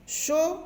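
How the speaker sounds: "chocolat" broken into separate syllables with pauses; split into syllables. Shown as a demonstration. Teacher counting syllables for the children, "chocolat" in separate beats. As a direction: say "chocolat" one syllable at a time, pausing after each. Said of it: "j'ai trois syllabes".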